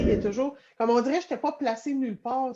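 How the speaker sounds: normal talking voice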